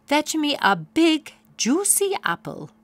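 put-on kindly old magical mare; fairy godmare. A narrator's reading. Fairy godmare greeting crying Poniella, high and grand. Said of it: "fairy godmare".

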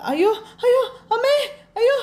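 frightened woman wailing for help; screaming in fright. Acted. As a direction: shriek out in terror. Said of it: "കിടന്ന് കാറുവാ".

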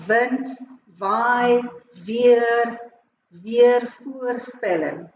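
wind, waai, weer with W sounded as v; Afrikaans W. Shown as a demonstration. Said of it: "sounds different in Afrikaans".

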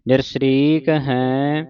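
ਨਿਰਸਰੀਕ run together quickly, the r clusters unbroken; read quickly. Shown as a demonstration. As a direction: glide through ਨਿਰਸਰੀਕ in one quick breath. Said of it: "ਨਿਰਸਰੀਕ ਜਲਦੀ ਦੇ ਨਾਲ ਪੜ੍ਹਨਾ ਹੈ".

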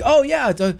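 high, excited fan gushing; starstruck fan. Pretend. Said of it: "imagine ever meeting somebody".

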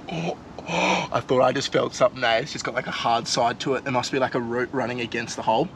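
hushed, focused mutter with hand in a hole; hushed tension. Real, not acted. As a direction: talk low while feeling for the crab. Feeling around inside the crab hole.

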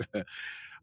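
quiet breathy laugh mid-sentence; soft amused chuckle. Real, not acted. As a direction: let a small laugh slip out. Amused by own recap.

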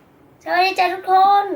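slow, loud and clear for the toy; speaking to a toy. Real, not acted. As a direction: spell it out slowly for the parrot. Child speaks to talking parrot toy.

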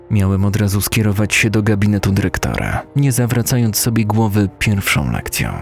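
plain reading voice

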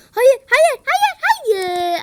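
high, loud desperate cries of no; frantic no. Real, not acted. Gamer wailing as his team loses. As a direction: wail no as the fight is lost. Losing a fight in game.

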